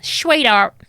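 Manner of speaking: lightly voiced East End nan saying sweetheart; grandmother voice. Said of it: "I just turned into my grandmother then".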